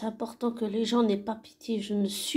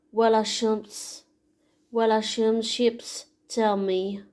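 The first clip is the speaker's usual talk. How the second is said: reading song lyrics. Acted. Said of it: "je vais vous la lire en anglais".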